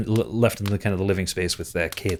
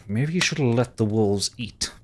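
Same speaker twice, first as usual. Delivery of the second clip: through gritted teeth. Acted. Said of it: "goes through grit teeth".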